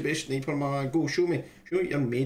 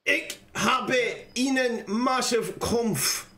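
slow, halting German reading; careful amateur German accent; attempted German; 4 semitones higher, much slower than usual. Shown as a demonstration. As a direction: read German slowly, word by word. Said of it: "I'll read that again in German".

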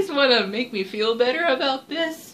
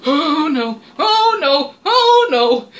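rising frantic oh no, getting louder; panicked cries; 7 dB louder, slower than usual. Real, not acted. Gamer panicking as the monster closes in, rising frantic cries. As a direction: panic building with each oh no.

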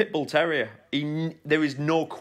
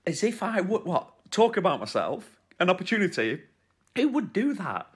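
higher-pitched mock protest; playfully affronted, pitch swinging up; mock indignation; 5 semitones higher than usual. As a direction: feign offence at being teased.

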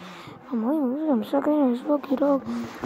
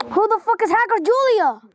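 incredulous; 8 semitones higher, faster than usual. Real, not acted. Gamer repeats question, incredulous.

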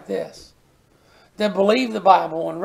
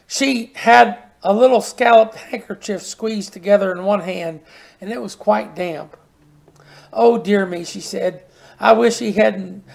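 put-on reading a children's story to the congregation. A narrator's reading. Preacher reading a children's story to his church, storytelling voice. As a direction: tell it gently like a bedtime tale.

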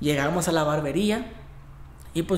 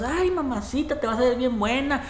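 mock flirting catcall; 6 semitones higher than usual. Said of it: "empezamos a echar carrilla nosotros".

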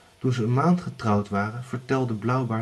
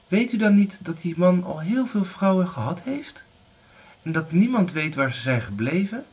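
high, uneasy daughter's voice; anxious girl; 8 semitones higher, 4 dB louder than usual. Acted. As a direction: raise the alarm as a girl. Anna warns her mother.

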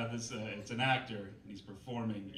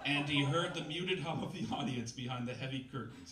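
lightly overwrought novel narration, slowing on big lines; dramatic story reading. Acted. Comedian reads a bad novel to the crowd, mock-dramatic narration. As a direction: read the purple prose with mock gravity.

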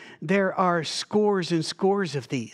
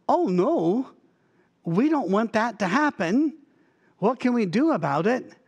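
higher-pitched mock dismay; lightly acted worried plea, pitch lifted; imitated alarm; 4 semitones higher than usual. Preacher voices the Ninevites hearing Jonah's warning, mock alarm.

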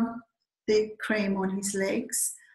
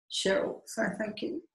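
whispered, much softer nudge; prompting whisper; 6 dB quieter than usual. Retold or imitated. Nudging Cheryl to thank her husband, whispered prompt. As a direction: hiss the cue under your breath.

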